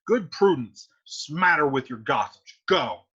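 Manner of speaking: low scornful dismissal; contemptuous father. Acted. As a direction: sneer at the nurse. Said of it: "And Capulet says".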